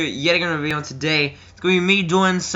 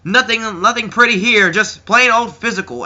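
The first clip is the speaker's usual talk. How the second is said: higher, hyped commentator voice; Michael Cole; 6 semitones higher, 5 dB louder than usual. Retold or imitated. Commentator calling a physical match, high mock call. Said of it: "Michael Cole was like".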